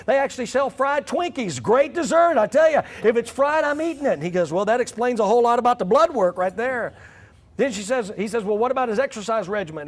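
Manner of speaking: exasperated wife. Retold or imitated. Wife exposes husband to doctor.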